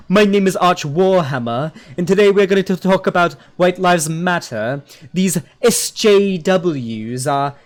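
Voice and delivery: mocking fake posh English accent; Arch Warhammer. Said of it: "put on, like, the, the posh accent".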